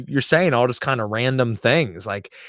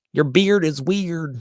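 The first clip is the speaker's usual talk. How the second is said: slow, louder, higher mock diss; mock lame diss line; 8 semitones higher, 4 dB louder, slower than usual. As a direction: draw out the lame line mockingly. Quoting a weak diss line.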